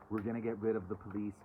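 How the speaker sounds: lightly scoffing echo of a slogan; mocking the slogan. Reader to viewers, mildly mocking a slogan she rejects. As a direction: toss it off as someone else's silly line. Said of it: "Don't buy into the madness of".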